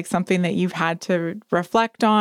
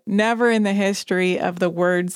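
laughing. Real, not acted. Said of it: "I immediately laughed".

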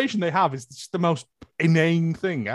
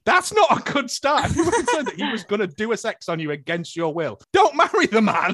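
exasperated retort; 5 semitones higher than usual. Retold or imitated. Viewer telling the bride off, exasperated. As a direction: scold the bride-to-be in disbelief. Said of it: "I was like".

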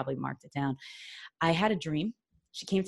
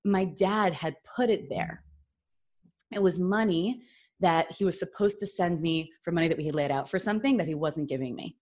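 usual speaking voice

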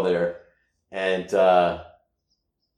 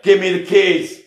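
mom's demand; 9 semitones higher, 6 dB louder than usual. Retold or imitated. Mom demanding the car keys.

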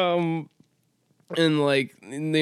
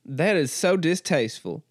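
lightly voiced genteel Southern accent; a touch of Southern aristocrat; aristocratic Southern. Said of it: "aristocracy Southern that I'm doing".

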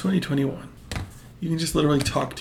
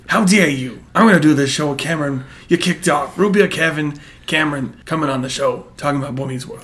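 Root Beer Kev voice; 3 dB louder than usual. Acted. Kev character offended, plugging show.

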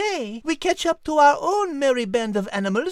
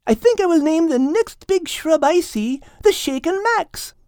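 louder, playful teasing voice; Kate voice; 4 semitones higher, 4 dB louder than usual. Acted. Kate teasing Max, playful. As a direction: tease him fondly. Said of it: "said Kate".

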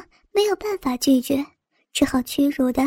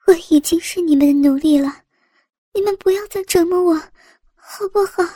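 pleading; 3 semitones higher than usual. Acted. Captive begging to stop.

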